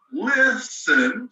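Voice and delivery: Listen with the first syllable leaned on; stress on LIS. Shown as a demonstration. Teacher showing students the stress, first syllable stressed. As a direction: hit LIS in Listen, let ten fall away. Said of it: "it's the part of the word".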